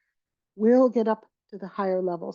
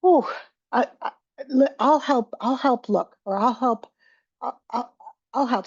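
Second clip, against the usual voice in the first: reassuring offer; 3 semitones higher than usual. Shown as a demonstration.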